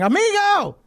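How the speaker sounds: high, loud, hammed-up cry of amigo; mock dad shout. Dad in sombrero greeting the guest, high hammed-up shout. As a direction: belt it out like a goofy dad greeting. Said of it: "The dad's in the background going".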